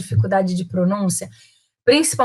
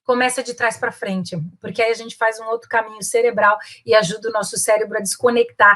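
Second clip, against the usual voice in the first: ordinary delivery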